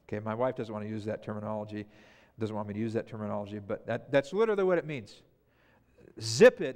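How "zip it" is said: loud, clipped order to be silent; sharp zip it. Acted. Jesus ordering the sea to go silent, sharp and loud. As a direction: snap it like a command. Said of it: "in other words".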